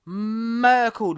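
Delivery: "Merkel" stretched long; drawn-out emphasis. Real, not acted. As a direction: hold the first syllable of "Merkel". Relishing his catchword for knockouts.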